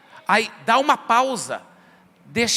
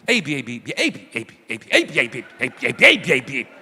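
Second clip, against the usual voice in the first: lower, silly looping ei bi; mock repetitive chatter; 8 semitones lower than usual. Preacher imagining a friend talking in loops, low silly babble. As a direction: parody someone babbling the same syllables. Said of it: "Imagina se alguém fosse conversar comigo".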